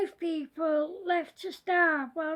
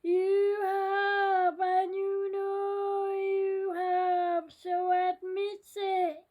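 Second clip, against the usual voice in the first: scary voice; 4 dB louder than usual. Acted. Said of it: "said the scary voice".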